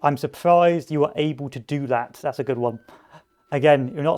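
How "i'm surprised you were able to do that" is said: backhanded praise. Shown as a demonstration. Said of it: "that's another backhanded insult".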